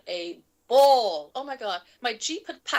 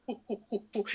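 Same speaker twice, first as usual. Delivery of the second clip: imitated chuckle; 10 dB quieter than usual. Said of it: "He, like, laughs and goes".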